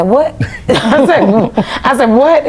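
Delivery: stunned, ask again; shocked. Retold or imitated. Hearing she'll sing with a famous singer, stunned.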